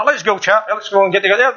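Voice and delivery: a posh English gent rallying the hunting party; mock posh English hunter. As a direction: tease the English toffs with a posh accent. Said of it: "all the posh guys going away".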